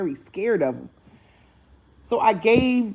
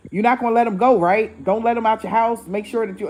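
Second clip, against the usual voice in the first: louder, slightly raised, insistent pleading; mock excited urging; 4 semitones higher, 5 dB louder than usual. Man handing off his cat, imitated as excited. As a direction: imitate someone eager to hand it off. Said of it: "excited to give me the cat".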